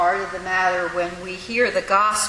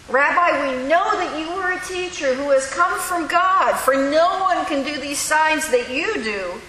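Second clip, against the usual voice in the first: put-on smart kid answer; 5 semitones higher than usual. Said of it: "One of those smart kid answers".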